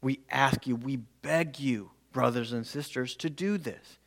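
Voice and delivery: heartfelt plea to brothers and sisters; pleading, earnest. Shown as a demonstration. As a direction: beg them gently, like Paul pleading. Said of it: "you can feel the emphasis he's putting on this word".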